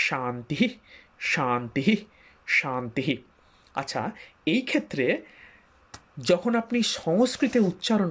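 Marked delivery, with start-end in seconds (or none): 0.1-3.1 শান্তিঃ with a clear breathed h; clear visarga. Shown as a demonstration. Teacher asking students to pronounce শান্তিঃ clearly. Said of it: "পরিষ্কার করে নেবেন উচ্চারণটা".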